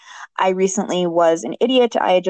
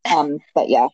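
cave echo; 4 semitones lower than usual. Real, not acted. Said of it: "like you're in a cave all of a sudden".

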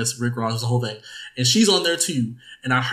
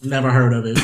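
understated mock-clueless reply; offhand imitation of someone out of the loop; Rob; 3 semitones lower than usual. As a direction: lightly imitate a co-host's blank dismissal. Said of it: "Rob will be like".

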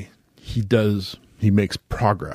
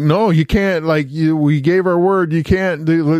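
higher-pitched retold objection; mock pleading protest; 5 semitones higher than usual. Gods stop the goddess leaving, mock protest, higher. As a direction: act out a group objecting, voice raised in pitch.

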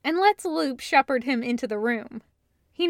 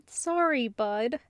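gentle, hushed apology; a soft sorry to a skittish friend; low and soft; 4 dB quieter, slower than usual. Acted. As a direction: soften it so he won't startle. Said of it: "pitching his voice low and soft".

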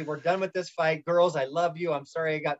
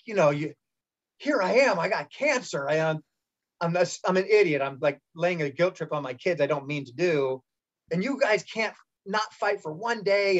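put-on scolding the kids; 3 semitones higher than usual. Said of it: "let 'em have it".

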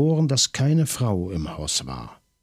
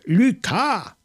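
higher, louder cry for help; desperate shout; 13 semitones higher, 3 dB louder than usual. A narrator's reading. Maigret, struggling in the dark, screams for his colleague. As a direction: yell the name with everything you have. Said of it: "so laut er konnte".

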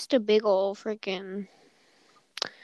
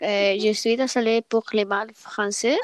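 clumsy French; 4 dB louder than usual. Retold or imitated. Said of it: "in French".

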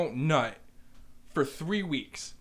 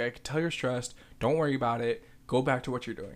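lower, casual retold reassurance; low-key reassurance; 4 semitones lower, 3 dB quieter, faster than usual. Delivery driver reassuring a stressed manager, low-key. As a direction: tell them gently, no fuss. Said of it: "Literally just like this".

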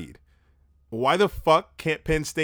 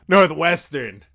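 emphatic; 5 semitones higher, 9 dB louder, slower than usual. Real, not acted. Corrects himself emphatically.

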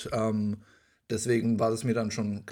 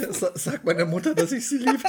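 higher, louder, laughing dying words; overacted death scene; 7 semitones higher, 5 dB louder than usual. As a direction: ham up a last goodbye. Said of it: "Wie so ein Film".

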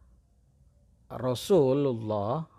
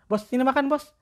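much higher, sweet coaxing call; high cat-calling voice; 12 semitones higher, 4 dB louder than usual. Retold or imitated. Owner calling the cat to come eat, high and sweet.

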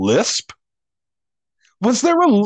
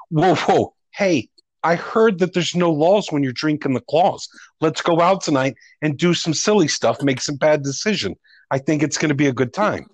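lisp. Retold or imitated. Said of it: "are you lisping when you're talking".

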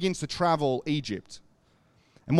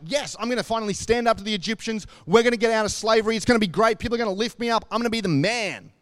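higher, eager self-congratulating voice; cocky excitement; 5 semitones higher than usual. Retold or imitated. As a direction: Moses imagining his triumph, pumped up. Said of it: "Moses goes home that night thinking".

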